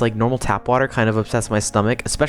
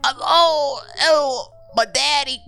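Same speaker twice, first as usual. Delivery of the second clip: high, hammed-up Boston wail; exaggerated Boston caricature; mock Boston accent; 13 semitones higher, slower than usual. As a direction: play a cartoon Bostonian, pitched way up. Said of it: "That's my Boston accent".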